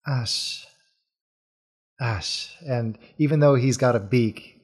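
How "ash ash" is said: pleased bird-man trying a new name; smiling voice. Acted. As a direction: repeat the name softly with a smile. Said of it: "you can hear the smile in his voice".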